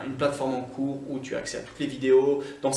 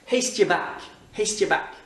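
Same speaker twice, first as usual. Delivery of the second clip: higher-pitched Scottish "haste ye back"; Scottish accent; 5 semitones higher, 3 dB louder than usual. Shown as a demonstration. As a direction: send them off like a Scot. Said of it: "cette expression quand tu quittes une ville écossaise". (accent écossais)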